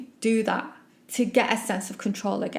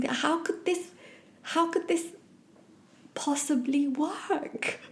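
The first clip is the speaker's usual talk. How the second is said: much higher, softer, slow sarcastic doubt; lightly sarcastic disbelief; eye-rolling scorn; 5 semitones higher, 5 dB quieter, slower than usual. Retold or imitated. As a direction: scoff at the whole idea. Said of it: "rolling my eyes".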